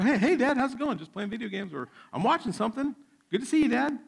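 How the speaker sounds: high-pitched mock kid greeting; kids at video games. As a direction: imitate distracted kids tossing dad a hello. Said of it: "there are my kids playing video games".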